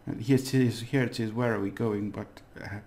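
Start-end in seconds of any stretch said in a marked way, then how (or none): 1.3-2.1 posh English accent. Real, not acted. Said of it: "I've got a posh accent all of a sudden".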